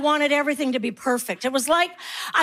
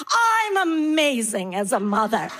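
self-congratulating mom; 3 semitones lower than usual. Acted. Mom boasting in put-on voice.

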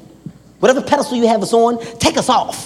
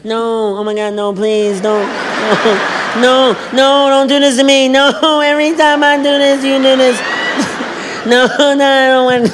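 hammed-up crying plea; composure breaking; 4 semitones higher than usual. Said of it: "my impression of women breaking down".

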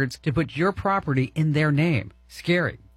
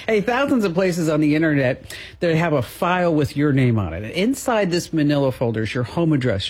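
ad read. Real, not acted. Host switches to sponsor read.

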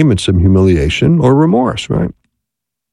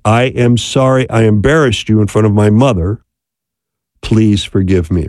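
sincere apology; 2 semitones lower than usual. Shown as a demonstration. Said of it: "we want to add to a little bit".

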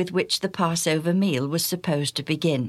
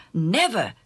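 exclaiming. Acted. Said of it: "Peter exclaimed".

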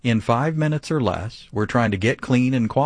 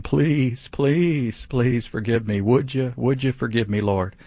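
mock pleading; 2 semitones higher than usual. Pastor mocks churchgoers begging God for forgiveness, mock pleading. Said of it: "begging and pleading".

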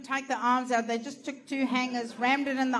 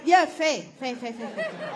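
mock grudging agreement; 3 semitones higher, 3 dB louder than usual. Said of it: "where people go".

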